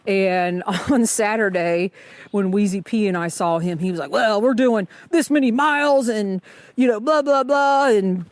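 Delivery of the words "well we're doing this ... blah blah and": hammed-up imitation of a know-it-all hiker; mocking Superman. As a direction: parody a hiker bragging about his miles. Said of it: "I just named him Superman".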